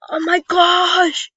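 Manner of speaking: put-on high, loud, slow little-kid squeal; toddler talk. Shown as a demonstration. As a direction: squeal it like a three-year-old. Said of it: "I can do a really three-year-old voice if I do this".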